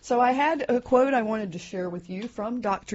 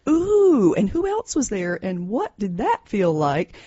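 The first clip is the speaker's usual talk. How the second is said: eager curious parent; 3 semitones higher, 7 dB louder than usual. Shown as a demonstration. Parent showing listeners how to ask a teen open questions, eager and curious. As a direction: sound genuinely interested in your kid's story. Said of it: "You get a lot more information if you say".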